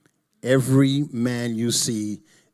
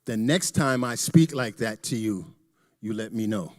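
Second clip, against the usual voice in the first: sarcastic. Retold or imitated. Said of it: "I said sarcastically".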